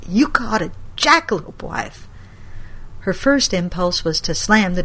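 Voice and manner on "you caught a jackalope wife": a grandmother calling on saints in shock; horrified grandma. Acted.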